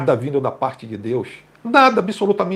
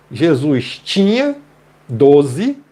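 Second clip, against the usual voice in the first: tinha drawn out slowly, doze louder; stress on tinha; 3 dB louder, much slower than usual. Shown as a demonstration. Teacher stressing the past tense tinha. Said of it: "do verbo não tem mais".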